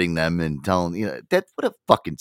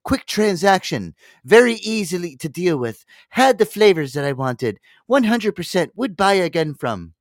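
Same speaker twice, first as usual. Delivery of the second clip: online review voice; 10 semitones higher, 4 dB louder than usual. Retold or imitated.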